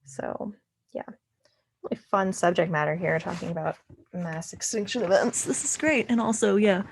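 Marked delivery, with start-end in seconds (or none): 1.8-6.8 sarcastic. Real, not acted. Tutor joking about mass extinction in a pandemic, sarcastic. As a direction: feign delight at a grim topic. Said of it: "sorry, sarcasm".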